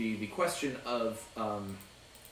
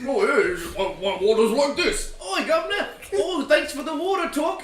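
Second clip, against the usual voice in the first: laughing through a high, loud mock Cockney accent; British surveyor bit; 13 semitones higher, 8 dB louder than usual. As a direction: ham up the London accent, giggling. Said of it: "can you please keep up this bit".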